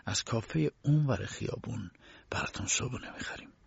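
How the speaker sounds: a guard's subdued, condescending refusal; lightly voiced, composed petty official; unmoved guard. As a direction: put the prisoner quietly in his place.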